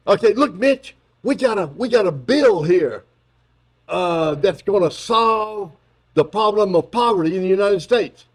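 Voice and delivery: mocking Biden pitching a bill; Biden pitching to Mitch. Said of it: "my equally stupid impersonation".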